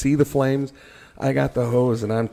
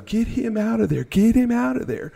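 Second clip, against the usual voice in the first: 1 chief ordering; 11 semitones higher than usual. Retold or imitated. Chief orders crew to pull him.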